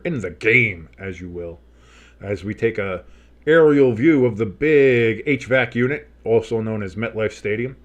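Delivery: stretched, punched-up sportscaster delivery; broadcast announcer. Pretend. Streamer setting the scene late in the game, mock-grand announcer. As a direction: play up the big stadium broadcast.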